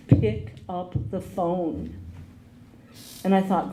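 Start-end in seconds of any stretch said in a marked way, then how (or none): 0.1-1.9 slow, calm inner voice giving a command; slowly, like a voice from nowhere; the voice she heard. Retold or imitated. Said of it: "I heard a voice".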